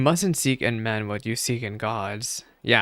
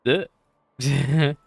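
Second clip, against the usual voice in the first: amused, breaking into laughter; laughing; 3 semitones higher than usual. Real, not acted. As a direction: laugh through the word. Laughs at the line.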